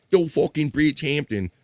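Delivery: rough regional accent, full "HAMP-tin" in Bridgehampton; lightly mocked regional accent on Bridgehampton; regional accent slipping in. Shown as a demonstration. Host mocking how not to say it, regional accent. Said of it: "regional, uh, accent might slip in".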